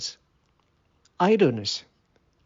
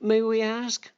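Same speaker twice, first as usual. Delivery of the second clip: higher, lightly voiced prim ants; questioning ants; 7 semitones higher than usual. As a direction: ask as the disapproving ants.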